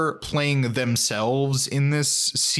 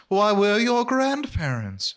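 mock whisper; 8 semitones higher, slower than usual.

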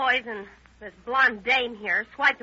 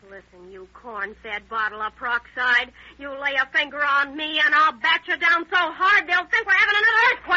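angry threat. Acted. Catfight threats between two women.

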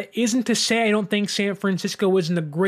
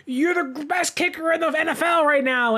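retold cheering; 7 semitones higher than usual. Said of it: "screaming his name from the mountaintops".

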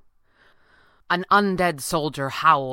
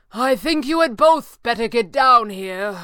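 higher, louder commanding call; raised order; 5 semitones higher, 6 dB louder than usual. A narrator's reading. Stranger summoning both heroes to him, called order. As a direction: order them down firmly. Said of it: "the stranger ordered".

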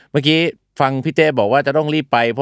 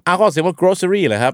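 surprised question; 7 semitones higher than usual. Real, not acted. Host realizing his co-host said groceries, high surprised question. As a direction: jump up in pitch, caught off guard.

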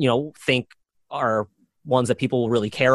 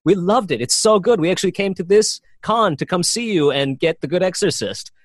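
higher-pitched imitation of eager fans; enthusiastic fans; 5 semitones higher than usual. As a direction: play back an admirer's gushing praise. Retelling delighted fans' praise.

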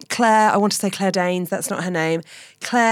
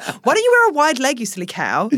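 posh voice; 5 semitones higher than usual. Retold or imitated. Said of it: "this posh voice going".

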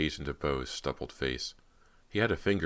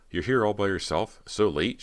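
higher, louder challenging questions; insistent; 6 semitones higher, 6 dB louder than usual. A narrator's reading. Girl questioning the director's presence, insistent. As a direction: press him, voice lifting in disbelief. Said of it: "she insisted".

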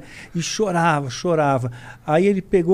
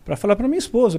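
ordinary delivery

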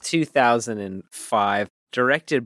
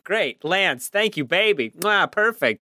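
lightly hammed-up gushing director, pitched higher; gushing film director; 6 semitones higher than usual. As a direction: lay mock praise on the star, higher-pitched. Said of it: "And you're like".

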